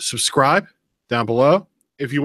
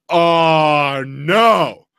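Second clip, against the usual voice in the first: higher, louder retold outrage; outraged shout; 5 semitones higher, 6 dB louder, much slower than usual. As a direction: replay the moment you blew up. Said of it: "I mean, I am pissed".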